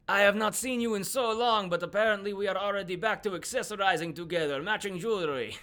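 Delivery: high, put-on theatrical voice; the Duke. The Duke to his braceleted companion, high wry character voice. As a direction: pitch it high, wryly put out. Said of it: "looks at you and goes".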